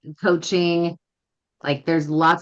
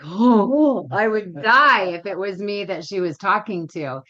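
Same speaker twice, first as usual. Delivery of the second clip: retold dread, higher on the gasped oh; mortified reaction; 3 semitones higher, 3 dB louder than usual. Onlooker watching a trainer correct someone, mortified. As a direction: imitate cringing at someone else's public correction. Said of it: "I remember just feeling like".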